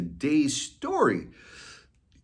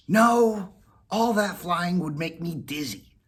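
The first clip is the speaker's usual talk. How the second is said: cat refusing; 8 semitones higher than usual. Acted. Whiskers refusing Molly, higher cat voice. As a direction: wave it off.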